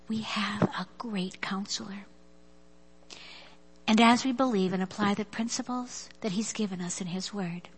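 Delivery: speaking through teary emotion, nose running; teary-eyed. Real, not acted. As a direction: voice thick after tears. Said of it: "I shouldn't have got teary-eyed".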